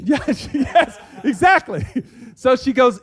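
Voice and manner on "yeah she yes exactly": high, loud laugh through the words; laughing agreement. Real, not acted. Laughs at host's joke.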